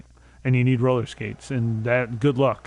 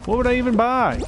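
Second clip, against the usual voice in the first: mock disbelief; 10 semitones higher, faster than usual. Mock incredulous question.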